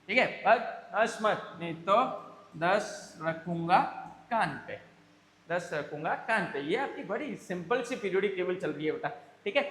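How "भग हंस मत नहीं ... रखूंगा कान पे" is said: put-on tough boy threatening. Boy threatens laughing friends. (लड़के की धमकी, धीरे-धीरे)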